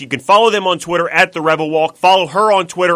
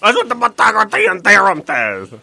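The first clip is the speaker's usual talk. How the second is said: high, loud, unhinged sports-host rant; an irate radio host losing it; Don LaGreca impression; 8 semitones higher, 4 dB louder than usual. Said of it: "I'm, like, twitching while I do that".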